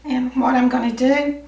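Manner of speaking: hoarse, losing voice; strained hoarse voice. Real, not acted. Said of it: "I'm losing my voice again".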